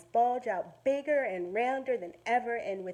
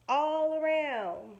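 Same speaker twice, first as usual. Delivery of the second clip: slow emphasis; 5 semitones higher, 5 dB louder, much slower than usual. Acted. Emphasising size.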